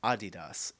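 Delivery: Adidas as "AH-dee-dahs"; Adidas stressed on the first syllable; German pronunciation. Shown as a demonstration. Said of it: "I like Adidas better".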